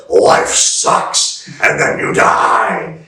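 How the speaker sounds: rasped, voiceless shouted promo, slowing at the end; Attitude Era Vince. Retold or imitated. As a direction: spit it out like a heel boss cutting a promo. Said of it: "Vince in the Attitude Era was like".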